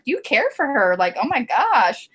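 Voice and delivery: retold motherly surprise, pitch swooping on the question; surprised mother. Mom learning her son cares for her, surprised. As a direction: imitate a mom taken aback. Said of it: "they were surprised".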